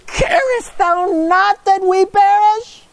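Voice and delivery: high, slow, wailing cry of fear; terrified plea. Acted. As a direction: beg him as the boat goes down, near tears. Terrified disciples wake Jesus.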